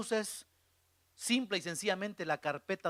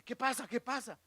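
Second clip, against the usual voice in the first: startled retelling; 4 semitones higher, 5 dB quieter than usual. Retold or imitated. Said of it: "yo asustado".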